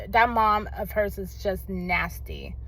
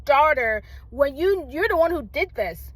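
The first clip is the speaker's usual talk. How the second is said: retold angry scolding; 5 semitones higher than usual. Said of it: "But I got so angry".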